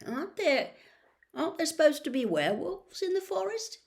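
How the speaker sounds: put-on a jittery boy hoping he's wrong; nervous. A narrator's reading. Ron nervously asking Harry about werewolves, high and rushed. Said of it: "twirling his wand nervously".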